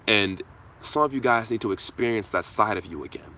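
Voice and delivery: usual speaking voice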